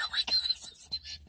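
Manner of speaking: tiny, very high, soft squeak; mock-panicked little voice; flustered self-reproach. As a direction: squeak it quietly through a laugh. Flustered self-quote, laughing, very high.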